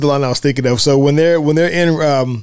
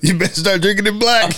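lightly voiced Eddie; 5 semitones higher than usual. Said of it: "And Eddie says".

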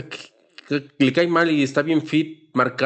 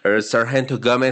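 sargento Gómez with gringo vowels, "Game"; a gringo sergeant name; American accent; 3 semitones lower than usual. Retold or imitated. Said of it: "Pero en acento gringo". (sargento Gómez con acento gringo)

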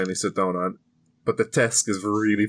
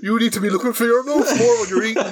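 laughing; 12 semitones higher, 4 dB louder than usual. Real, not acted. Laughing at friend eating.

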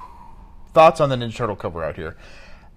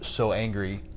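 shaking with anger; 5 dB louder than usual. Acted. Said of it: "I have never been so angry".

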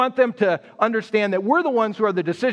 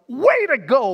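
huge smile; 4 semitones higher, 3 dB louder, slower than usual. Retold or imitated. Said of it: "with that huge smile".

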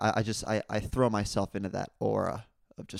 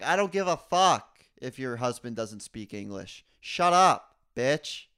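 mock angry retort; 2 semitones higher than usual. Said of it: "the guy was like".

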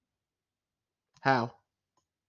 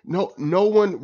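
incredulous; 7 semitones higher, much slower than usual. Real, not acted. Disbelief at the collapse.

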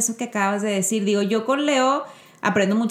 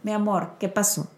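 calm and gentle; 4 dB quieter than usual. Retold or imitated. Mother calmly comforting her upset son. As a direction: soothe a frustrated child quietly. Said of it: "no sé qué hada me iluminó".

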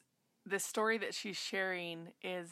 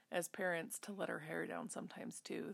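whisper; 6 dB quieter than usual. Real, not acted. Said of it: "whispered aside".

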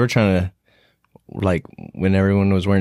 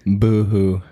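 fake crying. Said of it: "Boo-hoo, I can't see".

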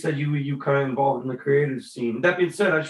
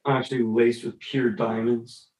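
slow, lower mock luxury; slow mock-fancy; 5 semitones lower, slower than usual. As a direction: savor each word slowly.

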